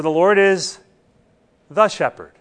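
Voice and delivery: "the" singled out after a beat; stress on THE. Shown as a demonstration. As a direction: pause before "the", then mark it. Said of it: "He wasn't generic about this".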